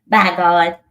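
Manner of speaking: "By God" exclaimed with force; emphatic by god. Shown as a demonstration. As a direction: bark out "By God" like a Southern oath. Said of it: "We say".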